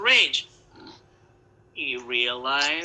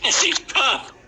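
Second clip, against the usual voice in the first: building to a loud, slow climax; building narration; 4 semitones higher, 6 dB louder than usual. A narrator's reading. Narrator thrilling the audience as the house falls. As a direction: swell it up to the house falling. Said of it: "narrator builds the blowing".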